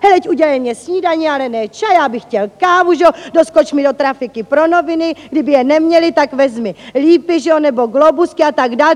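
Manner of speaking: rapid-fire list of orders from a bossy husband; fast, casual stream of demands; nagging husband. Retold or imitated. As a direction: imitate a husband reeling off errands quickly. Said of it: "Teď mě začal sekírovat".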